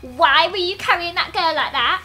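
lightly voiced jealous girlfriend. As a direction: demand answers, mildly put on. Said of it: "I'll do Mackenzie's voice".

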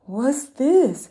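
a small mouse sniffing out something new; curious mouse voice. Acted.

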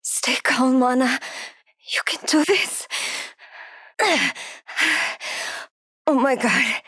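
breathy, anxious self-talk with heavy breaths; hushed fear. Acted. Trapped, hurt woman urges herself to think and stay unheard, hushed fear. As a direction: keep panic down, partly whispering between breaths.

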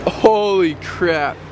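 slow, drawn-out exclaim; amazed. Real, not acted. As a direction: stretch it out in awe. Reacting to the view.

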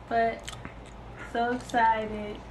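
excited in words, tired in delivery; unexcited-sounding excitement. Real, not acted. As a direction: say you're excited without sounding it. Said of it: "I know I don't sound excited".

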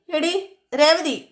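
slow, long call with രേവതി stretched and falling; drawn-out yell. Retold or imitated. Sachi keeps yelling for his wife, slow drawn-out call. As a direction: drag out എടി, രേവതി as a long falling holler. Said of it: "ഉറക്കെ കിടന്ന് അലറുകയാണ്".

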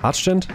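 Archgent as "Atch-tent", rising high; tentative pronunciation. Shown as a demonstration. Streamer settling the name with chat, tentative high "Atch-tent" for Archgent. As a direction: offer Archgent with "tch" as a question. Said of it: "insane schwierig auszusprechen".

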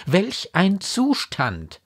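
high, emphatic remonstrance; exasperated, incredulous mother. A narrator's reading. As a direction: argue with her in disbelief.

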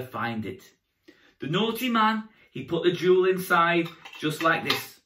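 put-on storytelling to young children; kids party magician. A narrator's reading. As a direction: tell it like a children's entertainer.

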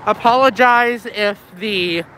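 talking through a face mask; muffled, covered mouth. Real, not acted. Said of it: "I'm wearing a mask".

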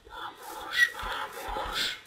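breathy whispered vamos; whispered plea. Real, not acted. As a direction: whisper it, tense and hoping.

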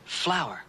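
Flower drawn out and falling; careful teaching demo of Flower; slow demo word. Shown as a demonstration. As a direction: say Flower slowly for a pupil to watch. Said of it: "watch me once more".

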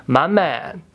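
lightly attempted American accent; a half-hearted American accent, gangster movie line; Denzel Washington American accent. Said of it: "that was a terrible American accent".

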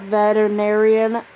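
"veterinarian" said oddly, syllable by syllable; oddly said word. Real, not acted. Listing classes to viewers, "veterinarian" said oddly. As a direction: say "veterinarian" in an odd, over-careful way. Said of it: "why I said it like that".

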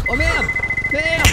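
sudden high alarmed shout; panicked yell. Real, not acted. Losing control of vehicle.

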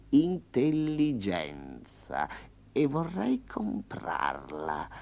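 slow, smooth tiger bargaining with menace; a polite predator in no hurry; lightly voiced tiger. Tiger demanding to buy intelligence from the farmer, smooth and slow.

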